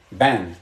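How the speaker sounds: "Ban" with the final N clearly sounded, low pitch; pronunciation model. Shown as a demonstration. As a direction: land on the N of "Ban". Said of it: "the second fetha sounds like N".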